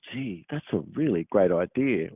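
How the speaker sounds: genuinely pleased, approving read; mean every word of the compliment; sincere praise. Shown as a demonstration. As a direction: demo of honest enthusiasm. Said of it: "where a true intent is a sort of an example of".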